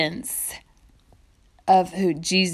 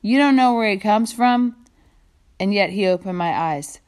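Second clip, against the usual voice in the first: sarcastic. Acted. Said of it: "poignant but sarcastic remark".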